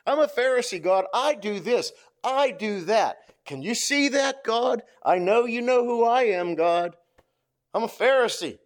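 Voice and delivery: a hint of a smug, self-satisfied religious man bragging to God; lightly voiced smug Pharisee; boastful Pharisee. Preacher acts out boastful Pharisee.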